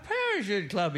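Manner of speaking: stammered out in shock; stuttering. Acted. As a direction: stutter it in disbelief. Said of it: "he stuttered".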